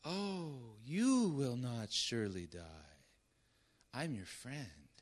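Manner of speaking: the serpent sweet-talks the woman with syrupy lies. Acted. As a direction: coax her like a sweet-talking snake. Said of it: "you can almost hear him say it, syrupy, drippy lies".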